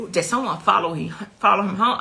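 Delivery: loud, frantic retold question. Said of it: "I'm, I'm frantic".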